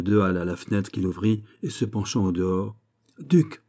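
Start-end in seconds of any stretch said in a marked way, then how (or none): 3.2-3.6 high-pitched call from a window. A narrator's reading. King calling down to the duke, crying out. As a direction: call out to someone below. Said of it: "cria-t-il".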